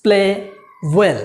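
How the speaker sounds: "The opening batsman" said very slowly, "The" as "dee"; slow example read. Shown as a demonstration. Teacher demonstrating "dee" before a vowel, very slowly. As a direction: spell it out slowly for learners. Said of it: "যেমন".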